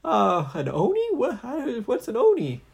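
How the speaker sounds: high, loud nervous babble; panicky hero voice. Acted. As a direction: stammer in rising panic.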